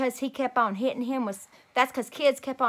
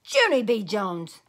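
yelling; 6 dB louder, slower than usual. Acted. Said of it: "yelled Daddy".

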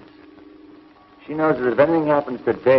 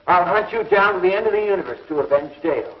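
stern threat; 4 semitones higher than usual. Acted. Hero warns villainess.

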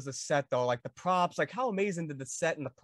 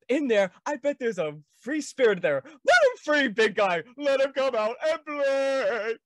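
much higher, louder stoned-dad coaxing, slow at the end; Earl Sinclair impression; 9 semitones higher, 6 dB louder, slower than usual. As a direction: coax big guy like a high, goofy dad. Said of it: "you go as Earl Sinclair".

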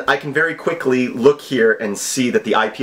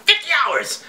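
mock excitement; 12 semitones higher than usual. Mocking the deadline.

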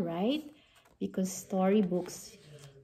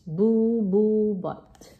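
big words said loud; 5 dB louder, slower than usual. Shown as a demonstration. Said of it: "So there are the big words".

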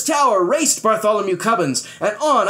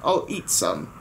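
lower, offhand bravado; dismissive; 8 semitones lower, 4 dB quieter than usual. Acted. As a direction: wave off the danger coolly. Captain boasting, dismissive.

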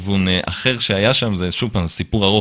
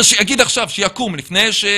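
angry demand; 9 semitones higher than usual. Retold or imitated. Boss demanding the Israeli stand up, higher angry call. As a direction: imitate the furious boss calling someone out. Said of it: "הוא אומר".

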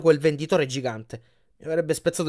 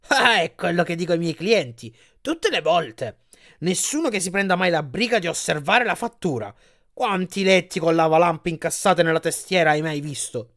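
lightly voiced, higher, proud salesman; giant bed salesman, pleased; 4 semitones higher than usual. Giant salesman boasts to Percy about workmanship, lightly voiced. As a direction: lightly play a flattered salesman showing off his wares.

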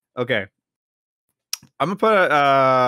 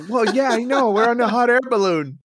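high, louder, impatient obvious-answer tone; exasperated reply; 11 semitones higher, 5 dB louder than usual. Pretend. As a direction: huff it at the clueless balloon man. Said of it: "And I go".

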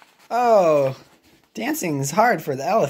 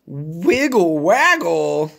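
Gerald voice; 2 semitones lower, slower than usual. Acted. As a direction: drop down for the elephant. Gerald echoes.

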